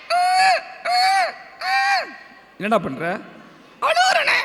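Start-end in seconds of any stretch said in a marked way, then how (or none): 0.1-2.1 squeaky mock sobs that sound like giggles; short high puppet whimpers; badly faked crying. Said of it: "நீ அழுகுற மாதிரி இல்லையே". 3.8-4.4 very high puppet-character voice; டிங்கன். Pretend. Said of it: "டிங்கன் வந்து ஒரு கதை".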